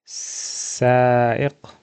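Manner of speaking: سائق drawn out slowly, syllable by syllable; Arabic word for driver. Shown as a demonstration. Teacher to students, modelling driver in Arabic, slow and clear. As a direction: stretch سائق slowly so students can copy it. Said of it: "he is a driver".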